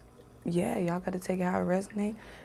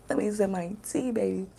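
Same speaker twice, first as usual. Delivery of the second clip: words around a sip of tea; sipping hot tea. Real, not acted. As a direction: talk while sipping tea.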